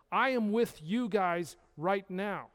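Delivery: ordinary talk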